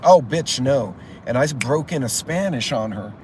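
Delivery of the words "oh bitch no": indignant retort. Retold or imitated. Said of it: "And I was like".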